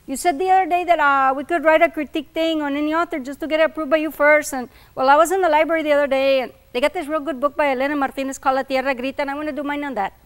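loud, rushed eager student; student pitching his book to the professor, eager and fast. A narrator's reading.

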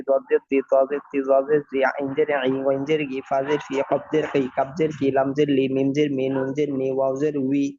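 rhythmic, even-toned letter-by-letter spelling drill; recitation drill. Shown as a demonstration. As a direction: chant out the letters evenly for learners to follow.

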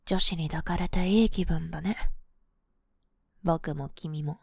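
ordinary talk, nothing marked

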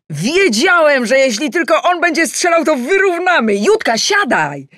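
very high, loud cheering; excited. Acted. Adam exulting to his wife about the equaliser, excited.

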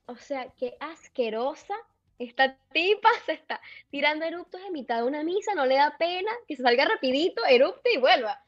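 mildly indignant inner rant; retold disgusted indignation. Churchgoer appalled at a woman burping during mass, mild indignation. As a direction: grumble it as a mock-scandalized thought.

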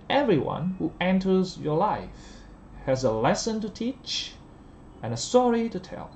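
"teach" rising, "tell" falling at the end; slow model sentence, up on "teach", down on "tell"; list intonation. Shown as a demonstration. Teacher modelling the whole sentence, rise on teach, fall on tell. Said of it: "liệt kê ta lên giọng".

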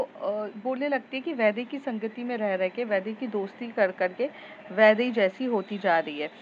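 ordinary delivery

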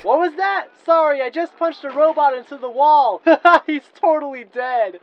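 high, loud, boisterous bragging; cocky excitement. Acted. Sonic on the phone while fighting robots, excited. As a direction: shout it mid-fight, laughing.

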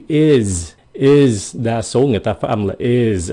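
"is" with a voiced z ending; Z sound. Shown as a demonstration. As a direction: end "is" on a buzzing Z. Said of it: "âm Z".

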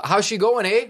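mock Canadian, lightly done; a hint of a Canadian greeting; Canadian accent. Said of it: "in the correct voice".

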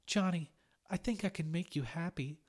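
weepy ex begs Johnny, tearful; tearful plea. A narrator's reading. Weepy ex-girlfriend pleading.

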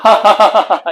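a loud scornful burst of laughter; short mocking laugh. Shown as a demonstration. Teacher demos a sneering laugh. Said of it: "이렇게 웃는 거지".

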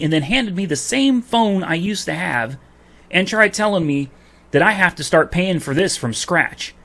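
real indignant rant; heated rant. Real, not acted. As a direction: vent it hot, stacking the grievances. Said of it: "I'm really heated about this issue".

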